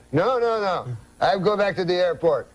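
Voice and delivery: lightly put-on French Canadian uncle; a touch of the Frenchman, a little animated; mild French-accented English. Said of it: "That's how he talks".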